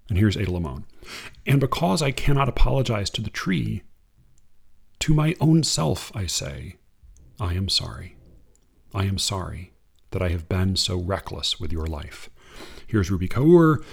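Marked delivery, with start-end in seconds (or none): 1.5-12.3 unhurried reading of verse; poem reading. Acted. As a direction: read it like a poem to an audience. Reads a Limon poem.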